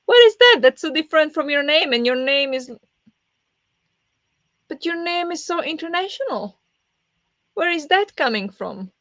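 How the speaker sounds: high, loud, exaggerated disbelief; mock outrage. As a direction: shriek it like an offended friend overreacting. Mock outrage at being called Nadia.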